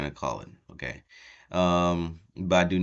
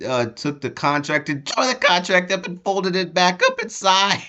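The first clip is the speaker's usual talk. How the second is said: excited retelling; 12 semitones higher, 6 dB louder than usual. Real, not acted. Excited retelling of Jey's stunt.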